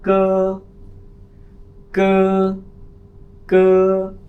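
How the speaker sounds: क said high and loud, crisp; sounding out a letter. Shown as a demonstration. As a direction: hit क sharply, like drilling students. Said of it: "लेकिन पढ़ेंगे क्या?". (क की आवाज़ ऊँचे, ज़ोरदार स्वर में)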